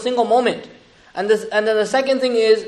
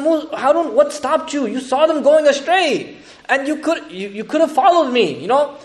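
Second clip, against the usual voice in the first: upset Musa; 5 semitones higher, slower than usual. Retold or imitated. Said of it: "Musa is so mad".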